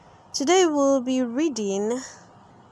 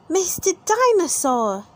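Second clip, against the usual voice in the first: put-on high little girl voice; lightly voiced little pig girl; Peppa voice; 7 semitones higher, 4 dB louder than usual. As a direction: Peppa picks her toy, in a high girly voice. Peppa voiced in read-aloud story.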